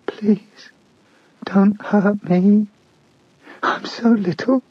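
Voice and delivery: put-on high, slow small child begging; cowering plea. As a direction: beg like a terrified little child. He whimpered.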